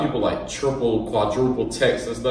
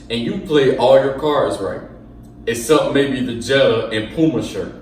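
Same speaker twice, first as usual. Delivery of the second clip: dramatic reading. Pretend. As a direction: read the text like a theatrical monologue. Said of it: "let me do my dramatic reading of this".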